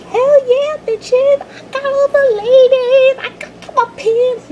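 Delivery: high hammed-up bragging bro voice; cocky party boy showing off; mock cocky jock. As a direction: crow about the ladies like a dumb jock.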